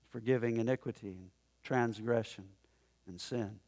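low, soft, measured scripture quote; solemn recitation. Retold or imitated. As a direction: recite God's words gently, unhurried. Recites God's words as he passes.

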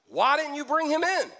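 high-pitched, insistent question; demanding. A narrator's reading. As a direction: demand an answer, pitch jumping up. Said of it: "The leading priests and Pharisees demanded".

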